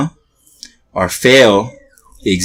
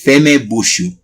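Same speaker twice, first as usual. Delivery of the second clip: a touch higher, mildly stern command; mock angry teacher; 5 semitones higher, slower than usual. Imitating a mad teacher hushing a chatty student, mild mock anger. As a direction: play a cross professor, lightly hammed. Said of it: "If he gets really mad".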